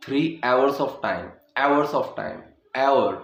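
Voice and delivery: hours with ए start; hours as एवर. Shown as a demonstration. Teacher modelling hours in a sentence. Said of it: "hour की आवाज़ आएगी".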